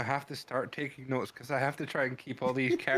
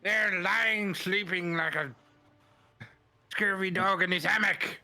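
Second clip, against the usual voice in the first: hammy West Country pirate voice; West Country accent; 5 dB louder than usual. Acted. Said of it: "it is the worst West Country accent I've ever heard".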